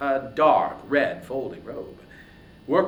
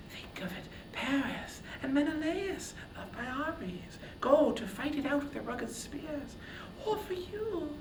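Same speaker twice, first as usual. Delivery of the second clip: high, hushed whisper close to the ear; whispering goddess; 13 semitones higher, 8 dB quieter than usual. A narrator's reading. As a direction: lean in and whisper it urgently, coaxing. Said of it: "brushed close and whispered".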